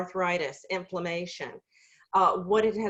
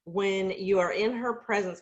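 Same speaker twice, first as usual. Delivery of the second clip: choking up. Real, not acted. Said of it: "gosh, I'm gonna start crying".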